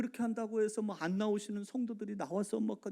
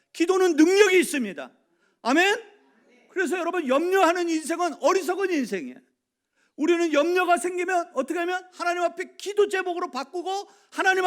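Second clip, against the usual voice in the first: loud, ringing sermon delivery, high and driving; full-force preaching; 10 semitones higher, 14 dB louder than usual. Acted. Pastor urging the church to pray, full-force preaching. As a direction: preach it hard to the congregation.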